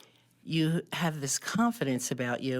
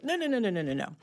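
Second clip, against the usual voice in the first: laughing reassurance; 7 semitones higher, faster than usual. Retold or imitated. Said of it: "they were laughing at me".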